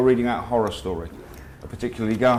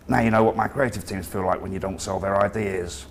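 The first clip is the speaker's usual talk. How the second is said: hammed-up northern English accent; comedy northern accent. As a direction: play a gruff northern boss, northern accent. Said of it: "in his comedy northern accent".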